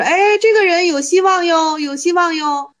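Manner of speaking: a needling jab dressed as praise; mocking praise. 岩头 mocking the monk with fake praise, teasing. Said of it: "岩头就是在这损他呢".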